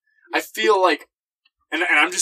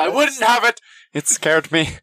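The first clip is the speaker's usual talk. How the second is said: laughing; 6 semitones higher, slower than usual. Retold or imitated. Repeating the wife's quote, laughing.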